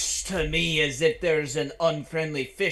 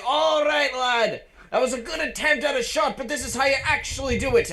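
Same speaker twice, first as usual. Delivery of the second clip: calling from far away; 9 semitones higher than usual. Acted. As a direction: shout it over to a friend at a distance. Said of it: "I'm going to shout over at Billy".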